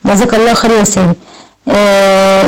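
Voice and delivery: ordinary talk, nothing marked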